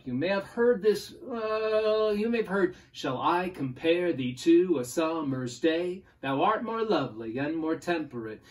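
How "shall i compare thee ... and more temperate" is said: poem recital. Shown as a demonstration. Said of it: "we don't beat it exactly like that".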